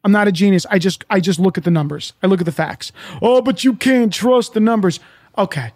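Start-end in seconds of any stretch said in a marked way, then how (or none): 3.2-5.0 mock objection in a put-on voice; mocking doubter. Speaker imitates a skeptic distrusting the numbers, mocking. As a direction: parrot the skeptic's protest mockingly.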